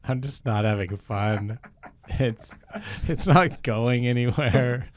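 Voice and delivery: mock-frustrated loud rant; fed up. Real, not acted. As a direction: done with this and saying so. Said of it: "I just wanna stop doing the scene".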